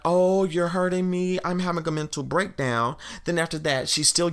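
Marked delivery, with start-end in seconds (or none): 0.0-3.0 mock crying. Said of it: "she starts crying and is like".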